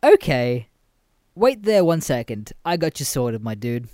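loud, overly obliging; playing along cheerfully; loud mock-friendly reply; mock helpful. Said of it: "And I say".

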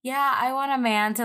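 lightly voiced gushing teenage girl; a hint of swooning teen fan. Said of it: "when you're a teenage girl".

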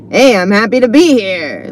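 mock hipster greeting; insincere. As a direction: feign happiness like a too-cool hipster. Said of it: "Like, it's this insincere".

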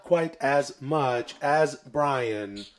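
slow, measured robot statement; deadpan machine. Acted. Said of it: "I am a robot".

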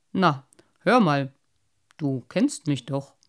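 half-whispered, mildly offended carp; a touch of wounded pride; slightly hurt. A narrator's reading. Old carp hears his promise doubted, mildly hurt half-whisper. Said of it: "beinahe ein wenig gekränkt".

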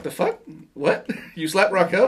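yelps it in high disbelief, then laughs; retold stunned outburst; shocked disbelief. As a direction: caught off guard, half laughing. Friend shocked at slap news.

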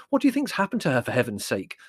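hammed-up incredulous exasperation; exasperated. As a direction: scoff at the worry in rising impatience. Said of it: "said Larry in exasperation".

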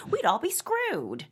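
stretched out high and slow; indignant outburst. Acted. Caller ranting on the radio, high and slow. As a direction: drag it out in shocked outrage.

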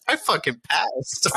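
gleeful high cry of triumph; triumphant. Retold or imitated. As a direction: crow it like you just won. Triumphant punchline, laughing.

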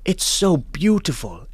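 high, gushing mock-British voice; put-on British accent, impressed. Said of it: "give him my British accent".

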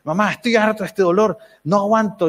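lamento algo agudo, imitado; quéjate como un papá harto; queja imitada. Retold or imitated. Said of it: "se empieza a quejar". (queja actuada a la esposa)

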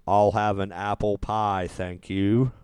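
attempted British accent, slow and soft; a hint of British, unhurried and quiet. Shown as a demonstration. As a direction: put on a slightly British accent. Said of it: "That's my British accent".

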